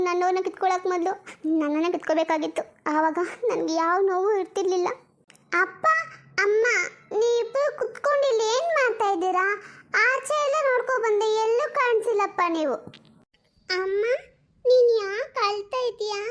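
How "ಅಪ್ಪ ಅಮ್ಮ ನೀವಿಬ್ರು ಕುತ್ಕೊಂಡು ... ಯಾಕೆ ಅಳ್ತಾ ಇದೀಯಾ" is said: a hint of a worried young daughter, a bit higher; lightly voiced little girl. Daughter begs her mother not to give her away, lightly childlike. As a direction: play the small girl pleading with her mum.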